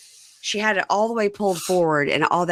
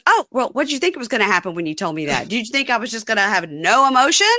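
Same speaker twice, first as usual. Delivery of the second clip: higher, quick mock-indignant retort; indignant challenge; 5 semitones higher, 4 dB louder, faster than usual. Host mimics girlfriend arguing on the phone, indignant challenge. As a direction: throw it back at them, acting offended.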